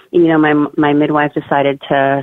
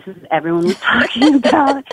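higher voice breaking into laughter; laughing realisation; 8 semitones higher than usual. Retold or imitated. Mother retells reaching the ring of fire, laughing in recognition. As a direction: laugh through the retold realisation.

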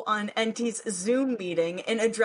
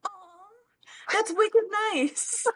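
put-on Boston accent; 11 semitones higher than usual. Thanking a listener for a compliment in a Boston accent. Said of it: "your Boston accent gives me butterflies".

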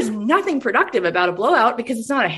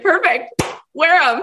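higher, upbeat imitation of an unstoppable founder; eager mock enthusiasm; gung-ho founder; 5 semitones higher, slower than usual. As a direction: brush the complaint off brightly. Founder brushes off friend's complaint.

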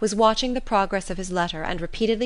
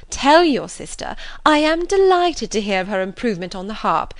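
Miss Bingley's gushing voice; 3 semitones higher than usual. Acted. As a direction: flatter him, gushing and showy.

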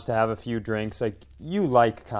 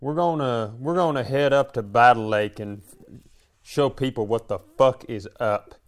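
rowdy cousin voice. Retold or imitated. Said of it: "something you would hear my cousins talking about".

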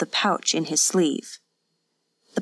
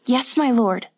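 higher, timid servant voice; mildly anxious submission; frightened obedience; 5 semitones higher than usual. A narrator's reading. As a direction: answer meekly, a touch of fear. Cowed wife answers her master.

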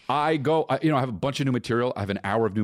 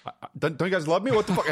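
high, stammered wounded protest; hurt protest; 9 semitones higher, faster than usual. Retold or imitated. Brother re-enacts asking his family for love, hurt protest. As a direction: whine it higher, stumbling into the question.

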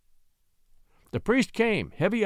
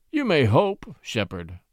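sneering; slower than usual. Acted. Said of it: "sneered the Marquis".

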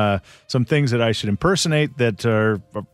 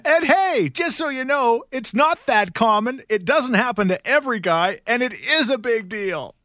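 Rachel impression; 12 semitones higher than usual. Rachel mocking Ross after the break, high falsetto. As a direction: tease him sweetly, falsetto. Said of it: "One more time".

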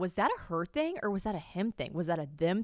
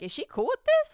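incredulous; 6 dB louder than usual. Retold or imitated. Wondering aloud about Taylor.

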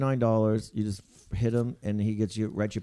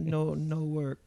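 slow, higher broken-English reply; imitated pleading stranger; 4 semitones higher, 4 dB quieter, much slower than usual. Lady with a baby explains about the elevator, pleading. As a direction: draw it out as her helpless answer.

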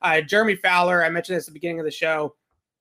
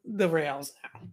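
hoarse voice. Real, not acted. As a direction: talk through a scratchy, sore throat. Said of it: "My throat is, is shot".

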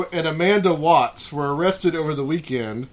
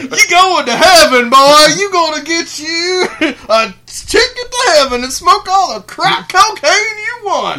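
hammed-up redneck preacher; 12 semitones higher, 8 dB louder than usual. Mocking the buyers in character.

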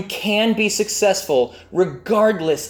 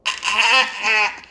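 frozen stammer; 5 semitones higher, slower than usual. Retold or imitated. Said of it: "What I actually said was".

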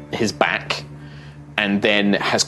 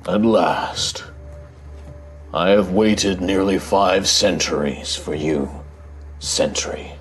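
slow, grave ancient guardian; deep rumbling voice; 3 semitones lower than usual. Acted. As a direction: speak like a giant of stone, unhurried. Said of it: "this deep rumbling voice".

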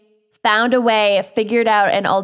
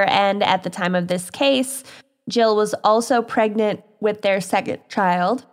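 talking through hiccups; hiccuping. Real, not acted. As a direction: hiccups breaking the reading. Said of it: "Sorry, I'm hiccuping".

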